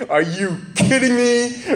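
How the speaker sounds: high, slow, drawn-out disbelief; incredulous Peter. Acted. Peter balking at forgiving enemies, high and incredulous. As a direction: stretch it out, not believing a word. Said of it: "And then Peter goes".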